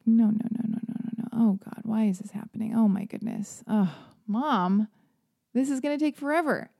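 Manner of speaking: whiny, exasperated no no no; exasperated dread. Retold or imitated. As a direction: dread the long wait at the register. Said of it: "I was already like".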